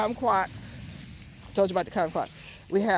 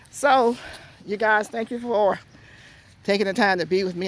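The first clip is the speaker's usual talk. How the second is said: out of breath; 4 dB louder than usual. Real, not acted. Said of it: "I'm out of breath now".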